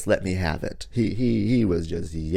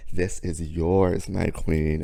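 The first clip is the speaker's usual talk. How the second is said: gracious; slower than usual. Retold or imitated. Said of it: "that was the energy I gave off".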